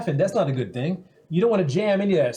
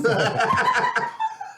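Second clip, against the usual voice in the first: very high-pitched squealing laugh; a high giggling cackle. Real, not acted. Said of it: "as adorable as her laugh".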